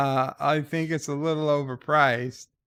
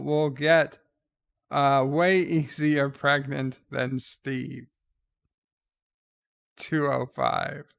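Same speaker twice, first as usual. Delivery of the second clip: letter read-out; 3 semitones higher, 5 dB louder than usual. Acted. Host reads a viewer's observation on names, animated read-out.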